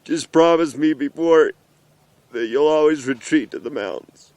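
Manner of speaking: a touch of held-back tears, still steady; a father's earnest plea, lightly choked up; emotional. Real, not acted. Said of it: "I'm so emotional".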